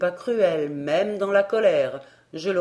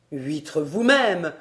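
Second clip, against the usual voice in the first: furious retort; 3 dB louder, slower than usual. Acted. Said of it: "m'écriai-je furieux".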